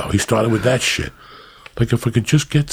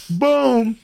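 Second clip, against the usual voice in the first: boom. Real, not acted. Punchline exclamation repeated.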